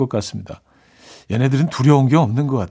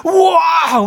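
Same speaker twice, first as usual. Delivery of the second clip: a huge, much higher cry of delight; overjoyed shout; 5 dB louder, much slower than usual. Shown as a demonstration. Husband hearing the pregnancy news, shouting with delight. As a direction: scream with joy at the positive test, way over the top. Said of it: "막 이런 거 있잖아".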